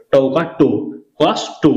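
টো with a full o sound; কস টো in two beats, the last ending in o; o-vowel ending. Shown as a demonstration. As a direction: sound out কস, then টো as its own syllable. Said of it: "এই টকে ওকারের মতো উচ্চারণ করব".

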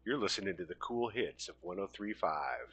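low, soft late-night DJ patter; radio DJ voice. Acted. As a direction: slip into a hushed, low radio announcer. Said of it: "adapt a radio voice".

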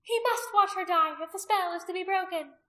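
high, loud command; ringing, insistent high voice; calling out. A narrator's reading. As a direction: call the order to the followers. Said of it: "Anomia called back to them".

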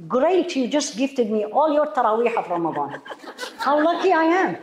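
laughing, delighted thanks; mock delight with a laugh; mock grateful. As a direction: cheerfully thank the backbiter, laughing. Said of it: "This is how I say".

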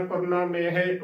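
ਕਰਨਾ, ਮੇਹ as korna-mehe, run together; joined pronunciation. Shown as a demonstration. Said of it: "ਉਚਾਰਨ ਕਰਨਾ ਹੈ".

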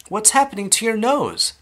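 high-pitched alarmed question; shrieked question. A narrator's reading. Mother staring at her daughter's nose, shrieking. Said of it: "shrieked Missus Beauregard suddenly".

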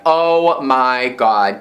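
oh my God said slow and dreamy; drawn-out excited gush. Real, not acted. Gushing to viewers over strawberry packaging, slow and thrilled. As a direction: stretch it out slowly, thrilled.

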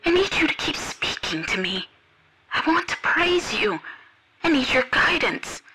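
high, soft, pleading woman's voice; tearful pleading. Acted. Devotee begging him not to hang up, high and tearful. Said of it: "she started to cry".

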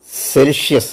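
Celsius with a sharp ts at the start; German Celsius. Shown as a demonstration. Teacher shows students Celsius with a ts sound. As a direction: say Celsius as tsel-zee-us. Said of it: "There C has the pronunciation as".

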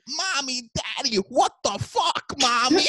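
mock the buddy yelling mommy on the phone; whiny high buddy. Friend on the phone to his parents, whiny mock yell. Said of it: "he'd go".

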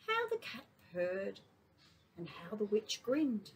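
storybook narration; reading to children. A narrator's reading. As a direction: read it to little kids. Reads a picture book to kindy.

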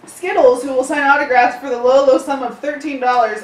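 chipper tour guide announcement. Acted. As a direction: read it like a cheesy tour guide. Continues tour guide parody read.

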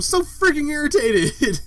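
high, strained burst of irritation; irritated yell. Real, not acted. Venting at the microphone to viewers, irritated yell. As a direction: let irritation push the voice up at the end. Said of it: "just me yelling at the microphone".

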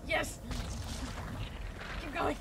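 excited shouting. Real, not acted. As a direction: cheer a teammate on frantically. Tense game escape.

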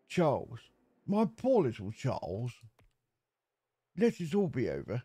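reading the game dialogue in a light posh English voice; mild put-on posh English accent. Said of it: "I went all posh then".

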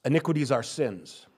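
usual speaking voice

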